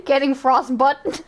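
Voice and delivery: slow mock Northern Irish echo; drawn-out imitation of Northern Irish vowels; mimicked Northern Irish accent. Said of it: "The Northern Irish accent".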